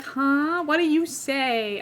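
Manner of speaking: slow, drawn-out mock incomprehension; baffled listeners. English people hearing her order water, mock baffled. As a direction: imitate someone who can't understand you. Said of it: "they're like".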